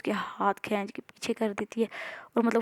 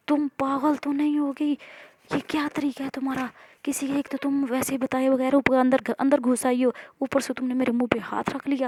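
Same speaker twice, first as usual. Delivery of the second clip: higher, indignant scolding; 4 semitones higher than usual. Acted. Maya scolding the stranger who grabbed her, indignant. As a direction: tell her off, offended. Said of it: "चिल्ला रही होती है ना उस पर".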